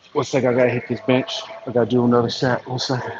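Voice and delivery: breathing hard after a set; winded between lifts. Real, not acted. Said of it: "Excuse the heavy breathing".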